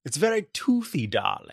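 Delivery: talking through teeth, posh; toothy socialite voice; posh accent. Pretend. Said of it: "I'm talking through my teeth".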